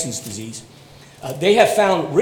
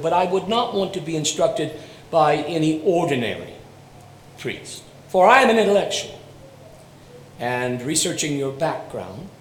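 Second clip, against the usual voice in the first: haughty condescending; 2 semitones lower, 3 dB quieter than usual. Retold or imitated. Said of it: "rather haughty, condescending accent and air".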